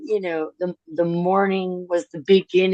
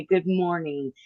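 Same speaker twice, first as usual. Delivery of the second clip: soft; 5 dB quieter than usual. Retold or imitated. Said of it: "feel her say".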